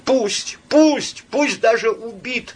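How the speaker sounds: high, loud, breaking cry, hoarse; broken hoarse cry. A narrator's reading. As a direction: cry it out with the voice cracking. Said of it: "надломленно и хрипло крикнула она". (надломленный хриплый крик)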